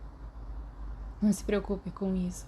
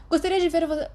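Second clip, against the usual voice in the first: high, louder put-on teasing voice; hammed-up flirt; mock flirty voice; 10 semitones higher, 5 dB louder, faster than usual. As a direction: tease him in a silly voice. Mary teases in put-on voice.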